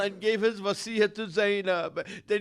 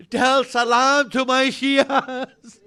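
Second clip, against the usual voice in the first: slow, sob-laden "salam"; slow tearful plea; 3 semitones higher, 6 dB louder, slower than usual. Acted. Preacher to mourners, slow tearful plea. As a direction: hold back the sob on "salam". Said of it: "repeated with crying".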